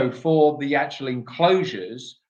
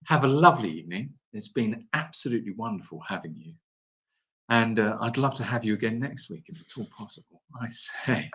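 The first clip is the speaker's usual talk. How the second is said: put-on plummy upper-class English accent; posh voice; 4 semitones lower than usual. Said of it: "Please do your posh voice to finish".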